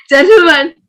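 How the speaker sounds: sudden loud game command; calling out loudly. Real, not acted. Host to players in a reaction game, calling out loudly.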